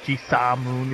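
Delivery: Ji-Sa Moon said as three syllables; name pronunciation. Shown as a demonstration. Correcting himself on the player's name, pronouncing Ji-Sa Moon in full. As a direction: say Ji-Sa Moon with a separate "sa" before "Moon". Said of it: "is how you say it".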